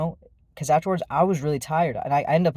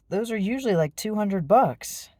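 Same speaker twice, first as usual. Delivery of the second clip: snapping back; 6 semitones higher than usual. Retold or imitated. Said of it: "snapped back with".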